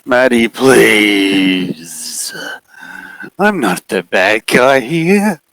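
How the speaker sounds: high, very slow wheedling; needy figure. Acted. The figure pleading with Maddie to love it, slow and high. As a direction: coax her, hurt and needy.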